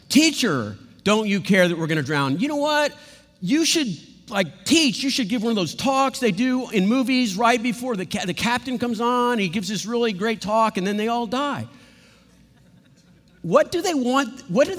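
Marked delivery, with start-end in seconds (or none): 0.1-11.7 higher, mocking whiny complaint; sarcastic whine. Disciples mocking Jesus in a sarcastic whine. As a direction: needle him with a mocking whine. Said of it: "sarcastic disciples to Jesus".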